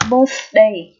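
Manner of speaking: "birthday" with a voiceless TH mid-word; tongue between teeth. Shown as a demonstration. Teacher shows learners the TH, carefully modelled. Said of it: "đây là lưỡi giữa răng".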